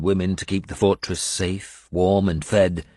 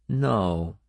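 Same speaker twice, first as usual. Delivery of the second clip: firm; 2 semitones higher than usual. Acted. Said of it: "she said firmly".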